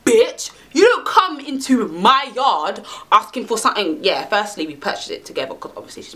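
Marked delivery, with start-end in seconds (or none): 0.0-4.0 telling her off. Pretend. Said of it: "So that's what I would have said".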